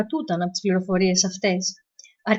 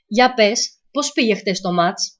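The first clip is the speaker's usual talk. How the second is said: put-on Middle Eastern accent; slower than usual. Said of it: "Η αργή, προσεκτική φωνή, με την προφορά της Μέσης Ανατολής".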